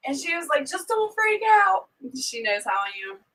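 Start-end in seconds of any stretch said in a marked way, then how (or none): 0.7-1.9 high, slow pleading; pleading daughter. Retold or imitated. Daughter begging mom not to panic, high and slow. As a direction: plead with a higher, drawn-out voice.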